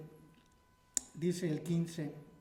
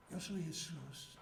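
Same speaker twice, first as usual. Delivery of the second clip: softer answer with an unusual tone; hushed divine reply; 2 semitones lower, 7 dB quieter than usual. Retold or imitated. Jesus answering the kneeling preacher, hushed. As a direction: let "Yo soy Jesús" fall soft and otherworldly.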